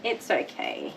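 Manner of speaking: slow hushed it's okay; calming dog. Real, not acted. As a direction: soothe a scared dog gently.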